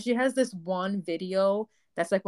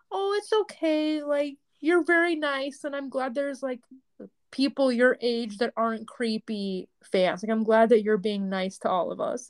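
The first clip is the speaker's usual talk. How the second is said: imitating sweet teen girl; 4 semitones higher than usual. Teen girl reassuring the older fan, sweet and high. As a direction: reassure her gently like a young fan. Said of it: "She's like".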